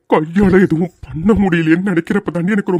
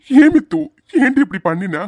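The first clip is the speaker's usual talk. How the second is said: anguished plea; 4 semitones higher than usual. Acted. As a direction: demand why in anguish. Husband pleading with wife.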